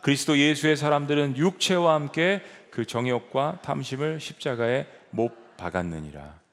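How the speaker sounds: scripture reading. Shown as a demonstration. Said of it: "이십사 절 다 같이 시작".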